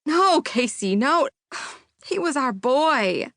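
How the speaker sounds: a touch of high-pitched grief; grieving cohost. Acted. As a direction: protest the news sadly.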